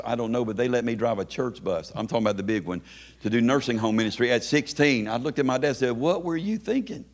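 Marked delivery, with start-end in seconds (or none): 5.9-7.1 drawn out, climbing in pitch; disbelieving, stretch it slowly higher; incredulous question. Retold or imitated. Young man questioning his dad about the church bus, incredulous.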